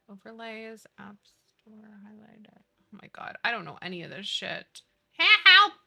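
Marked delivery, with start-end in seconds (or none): 5.2-5.7 loud yelped help; mock cry for help. Real, not acted. Streamer panicking over settings, loud yelp. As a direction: call out for help, half joking.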